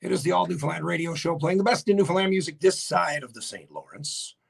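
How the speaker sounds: a host introducing his music radio show; radio announcer. Acted. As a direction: present the show like an old-time radio man.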